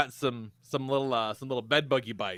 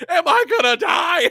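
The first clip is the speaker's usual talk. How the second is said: much higher, much louder terrified shout; panicked shout; 11 dB louder than usual. Retold or imitated. Boyfriend bleeding asks if he'll die, terrified shout. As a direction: yell it like you think you're dying.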